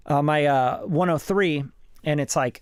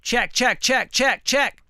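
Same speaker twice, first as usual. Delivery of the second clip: high-pitched mic check; 8 semitones higher, slower than usual. Shown as a demonstration. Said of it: "set my mic pre first".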